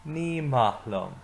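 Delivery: slow, clear repeat for the class; slow repeat-after-me. Shown as a demonstration. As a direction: lead the class slowly through it. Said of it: "So say that with me".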